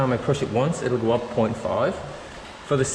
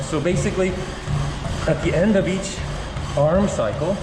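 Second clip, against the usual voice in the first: while running; 3 semitones higher than usual. Real, not acted. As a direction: speak mid-stride on a treadmill. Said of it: "I'm just trotting along here so I can talk to you guys".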